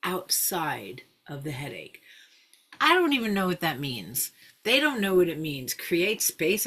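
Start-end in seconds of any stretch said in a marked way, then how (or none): 0.0-2.0 soft guiding voice. Shown as a demonstration. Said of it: "I'll invite them to rest awareness".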